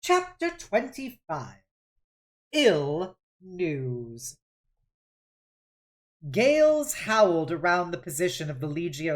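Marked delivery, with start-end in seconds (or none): 0.0-4.4 slow, announced chapter heading; measured title announcement; chapter title read. A narrator's reading. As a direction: set the chapter title apart.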